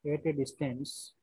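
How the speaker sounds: very slow, word by word, repeating phrases; slow dictation. Shown as a demonstration. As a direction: dictate slowly so students can write. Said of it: "question लिखिए पहले यहाँ पे".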